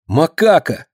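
high exclamation on reunion; excited call. A narrator's reading. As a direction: call her nickname eagerly. Радостная встреча на пороге. (высокий взволнованный возглас)

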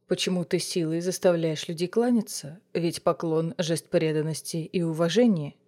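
low, soft, thoroughly bored. Acted. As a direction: say it as if nothing could interest you. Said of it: "От слов принца веяло неподдельной скукой".

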